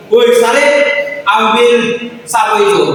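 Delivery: mock rude teacher command; rough tone. Shown as a demonstration. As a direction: bark the order at the pupil. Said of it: "intonasi yang lebih kasar lagi".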